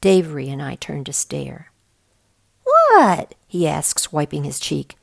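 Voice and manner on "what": sudden much higher, loud What; startled yelp of innocence; high squeaky surprised what. A narrator's reading. Max startled by stares.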